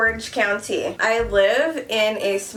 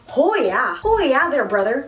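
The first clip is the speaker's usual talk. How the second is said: hammed-up Canadian accent, higher and louder; 4 semitones higher, 5 dB louder than usual. YouTuber joking about her Korean pronunciation, hammed-up Canadian accent. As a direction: play up a folksy Canadian accent. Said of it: "Canadian accent, it's just coming out".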